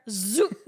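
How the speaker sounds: drawn-out comic zoop; imitated zoop sound. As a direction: voice a sudden zooming sound. Mimics snapping awake at slots.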